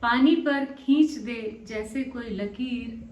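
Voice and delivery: spaced poetic phrases, lifted openings and falling endings; love poem recitation. Acted. Poet shares a love poem with channel listeners, measured recitation.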